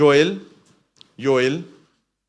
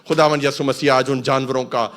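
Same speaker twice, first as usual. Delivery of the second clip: loud, rising declaration to the congregation; full-force preaching; 8 dB louder than usual. Real, not acted. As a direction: build to a shouted hallelujah promise. (پرجوش، بلند آواز میں منادی)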